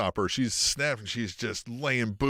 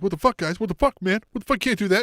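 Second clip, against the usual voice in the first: higher, indignant whine; mock outraged protest; 9 semitones higher, 3 dB louder, faster than usual. Varsity guys protesting the rescue, high and indignant. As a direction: squawk it like offended jocks. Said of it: "the varsity guys come out like".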